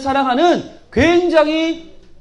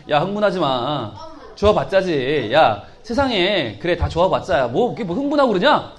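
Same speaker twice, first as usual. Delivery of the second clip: scoffing; 6 semitones lower, 3 dB quieter than usual. Acted. Nathanael scoffs low.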